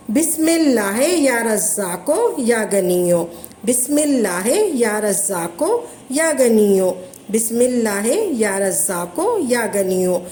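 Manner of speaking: धीमी, एक लय में दोहराया गया विर्द; हर बार एक ही सुर में ज़िक्र पढ़ें; वज़ीफ़ा पढ़ने का तरीका. Shown as a demonstration. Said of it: "ऐसे पढ़ना है आपने". (विर्द की तरह पढ़ना)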